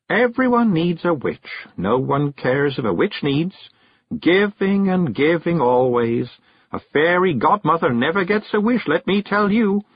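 slow, high witch's lament; Miss Level, dazed and aggrieved. Acted. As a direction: complain slowly as a dazed witch. Miss Level rambles wearily.

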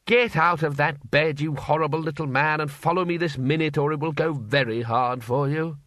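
put-on a bluff old wizard giving a stern order; lightly voiced commanding old don; gruff Arch-Chancellor ordering.

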